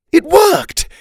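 very high, loud jubilant cry; squealed shout of triumph; cheering. A narrator's reading. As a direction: cheer it in a high-pitched character voice. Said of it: "he cheered".

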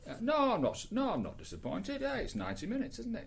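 high-pitched imitation of a Geordie fan; a hammed-up, badly faked Geordie accent. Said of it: "my Geordie accent is so bad".

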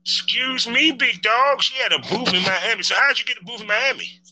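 high, teasing mock astonishment; mock surprise. Real, not acted. Host teasing the guest about her Miami booth, mock surprised. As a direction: act floored by her big news.

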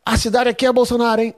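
mock yell of a hostile heckler; retold heckler shout. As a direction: shout it from the front table like a drunk heckler. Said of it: "aí o cara gritou assim".

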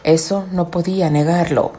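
measured storyteller reading; story narration. A narrator's reading. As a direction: read it like a novel.

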